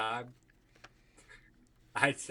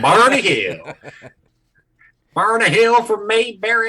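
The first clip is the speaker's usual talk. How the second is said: higher and louder, laughing through "Barney Hill"; gleeful, louder, higher; excited laughing riff; 9 semitones higher, 10 dB louder than usual. Real, not acted. Friend riffs on the principal's name, laughing, high and loud.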